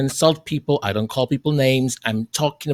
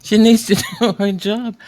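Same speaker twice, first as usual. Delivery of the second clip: "she needs to do her job" breaking into a real laugh, higher; 5 semitones higher, 3 dB louder than usual. Real, not acted. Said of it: "I can't stop laughing".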